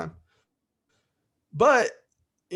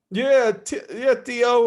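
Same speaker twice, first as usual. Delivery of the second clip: higher, louder yeah; nephew's eager answer; 7 semitones higher, 6 dB louder, much slower than usual. Retold or imitated.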